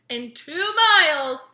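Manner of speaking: slow, loud, bossy navigator voice; bossy sat-nav lady. A narrator's reading. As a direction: announce it like a stern GPS. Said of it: "in a bossy lady's voice".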